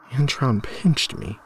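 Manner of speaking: put-on small trembling child's voice, slow; shaky voice. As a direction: let the words wobble, a little scared. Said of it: "he replied in a shaky voice".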